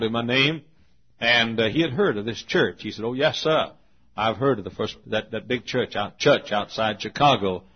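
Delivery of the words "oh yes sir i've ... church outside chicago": lightly imitated Southern drawl; a touch of Southern US accent, r dropped; Adolph Rupp, Southern drawl. Coach telling the preacher he knows the church, Southern drawl. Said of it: "he said in his Southern drawl".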